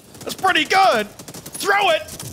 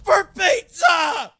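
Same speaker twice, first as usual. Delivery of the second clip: gung-ho soldier; much slower than usual. Acted. Opening catchphrase, slow shout.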